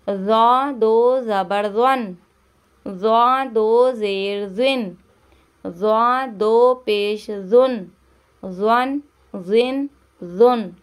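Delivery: ज़ौ said thick and full in the mouth, heavy emphatic z; heavy emphatic ज़ौ recitation; heavy Arabic letter. Shown as a demonstration. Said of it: "मोटा करके हुर्फ़े मुस्तालिया है".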